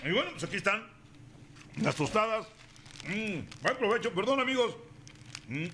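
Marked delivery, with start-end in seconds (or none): 3.1-5.7 talking with a mouthful; mouth full. Real, not acted. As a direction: speak around a bite of food. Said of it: "no se debe hablar con la boca bien llena".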